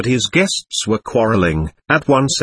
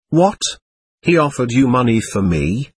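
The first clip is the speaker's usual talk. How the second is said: plain reading voice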